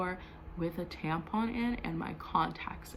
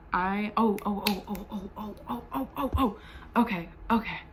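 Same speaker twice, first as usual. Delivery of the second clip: breaks into helpless laughter before going on; laughing to viewers at her own memory of the roommate drama. Real, not acted.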